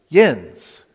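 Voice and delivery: yins in a Western Pennsylvania accent, said loud and firm. Shown as a demonstration. Preacher telling his local congregation the plural, Western Pennsylvania yins. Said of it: "we say".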